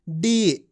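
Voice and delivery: डी with a long, drawn-out ee. Shown as a demonstration. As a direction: stretch the vowel of डी for learners. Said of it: "इस तरीके से इसका".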